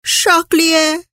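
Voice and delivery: a hammed-up sobbing cry of "Charlier"; wailing name. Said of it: "Vừa nức nở trả lời". (nức nở gào to "Charlier")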